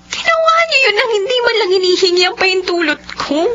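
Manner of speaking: crying, pleading with her uncle; tearful plea to the uncle; tearful protest. Acted. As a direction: push the words through tears. Niece protests forced marriage.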